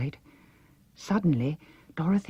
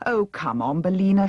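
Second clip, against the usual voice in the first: despairing wail; 6 semitones higher, 4 dB louder than usual. A narrator's reading. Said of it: "she wailed despairingly".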